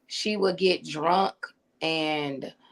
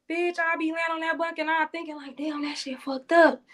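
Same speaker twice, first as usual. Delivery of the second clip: incredulous; 8 semitones higher, 3 dB quieter than usual. Retold or imitated. Asking cellmate, retold incredulity.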